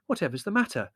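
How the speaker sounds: high motherly concern; soothing, puzzled question. A narrator's reading. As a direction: ask it placatingly. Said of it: "said Mother soothingly".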